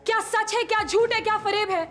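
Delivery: tearful. Acted. Confused wife breaks down.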